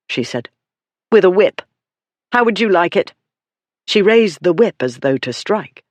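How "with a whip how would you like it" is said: louder, sharp indignation; indignant rebuke. Acted. Lady scolding the dog beater, indignant and loud. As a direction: shame him for the whip.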